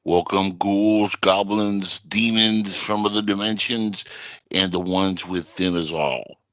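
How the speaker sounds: booming spooky welcome, then slowing; horror host. Acted. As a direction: greet the ghouls like a late-night horror host. Horror show opening welcome.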